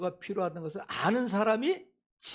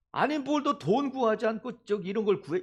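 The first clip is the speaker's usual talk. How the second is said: higher, acted telling-off; mock scolding; 4 semitones higher than usual. God imagined questioning what is asked, mock scolding. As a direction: chide the asker in mock disbelief. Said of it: "꾸짖지 아니하시고 또".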